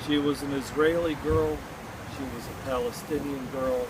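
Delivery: measured poem reading with pauses between phrases; poem recitation. Acted. Poet mourning a girl killed in war, poem recitation. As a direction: recite it line by line, letting each phrase settle.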